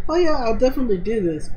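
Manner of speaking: mock cheerful agreement; sweet cheerful voice. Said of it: "and she just like".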